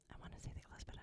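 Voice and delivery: half-secret whisper, just to herself; whispered aside. Real, not acted. Unsure whether the bookstore closed, whispered. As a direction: drop to a breathy whisper.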